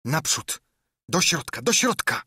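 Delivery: rising, impatient shouted command; furious yell from a narrated villain; yelling orders. A narrator's reading. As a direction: drive the men on, pitch climbing with each cry. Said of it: "Darł się i obrzucał ich przekleństwami".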